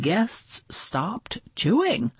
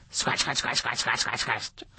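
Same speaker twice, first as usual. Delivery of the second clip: softer and lower, fading to nothing; fading scratches; 6 semitones lower, 7 dB quieter, faster than usual. A narrator's reading. Narrator fades out the scratching, soft and low. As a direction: let the scratches die away.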